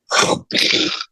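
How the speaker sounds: breathy whooshing burst for a bolt; unvoiced puff of impact, done with the mouth; imitated lightning strike. Storyteller showing the sudden bolt from the blue, imitated strike.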